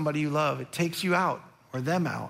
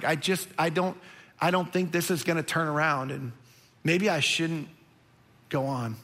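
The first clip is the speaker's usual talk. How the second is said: despairing Jonah; 5 semitones lower than usual. Acted. Jonah giving up to the sailors, low and defeated. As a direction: let it sink and trail away.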